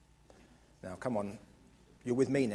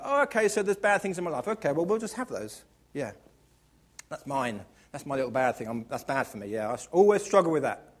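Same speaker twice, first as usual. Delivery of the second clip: mock resigned attitude. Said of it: "that kind of attitude of like".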